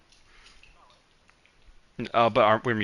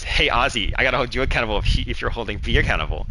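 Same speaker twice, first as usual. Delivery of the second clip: pitched-up mock repeat; mocking echo; 3 semitones higher, 5 dB louder, faster than usual. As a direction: parrot the boss's line loudly and fast. Coworker parrots the speaker's words mockingly.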